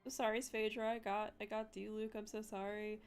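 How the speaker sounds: high, rushed mock apology; pleading high apology; apologetic friend. Friend apologizing profusely, quoted.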